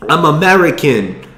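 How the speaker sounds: slow, emphatic mock foreign accent, taking offense; Tommy Wiseau. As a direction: badly imitate an indignant man's odd foreign accent. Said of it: "I can't even do his fucking accent".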